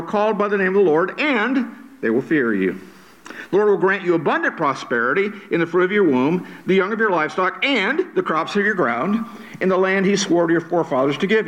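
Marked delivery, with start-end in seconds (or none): 0.0-2.8 "and" held out, then a break; stress on "and". Shown as a demonstration. Preacher reads promise to congregation, stressing "and". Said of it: "I emphasize the word and". 7.6-9.2 "and" drawn out at the start; slow down and lean on "and"; stress on "and". Shown as a demonstration. Preacher adds another blessing, stressing "and". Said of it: "I emphasize the word and".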